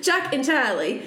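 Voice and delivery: Charlie with the r dropped, Chahlie; Maine accent. Shown as a demonstration. Retrying the names in a Maine accent for the story. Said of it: "now I just can't do it".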